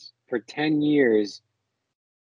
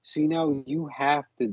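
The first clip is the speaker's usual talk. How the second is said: mocking coworker; 6 semitones higher, 3 dB quieter, slower than usual. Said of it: "so it's like a coworker".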